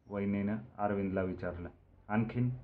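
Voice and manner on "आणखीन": short, higher and louder questioning; raised-eyebrow query. A narrator's reading. Arvind questioning the wedding plan, with a raised-eyebrow query. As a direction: prod for more, voice lifted. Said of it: "भुवया उंचावत अरविंदनं पुन्हा प्रश्न टाकला".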